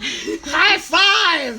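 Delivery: very high, loud put-on shriek; screamed celebration. Host repeats the cheer to the winner, hammed-up scream. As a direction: scream for a high five at full volume.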